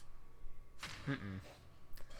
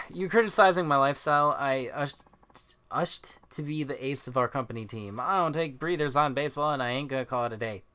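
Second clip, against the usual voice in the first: tipsy ballplayer. Acted. Voices drunk game character.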